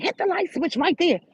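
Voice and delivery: mock bossy girl. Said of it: "She was like".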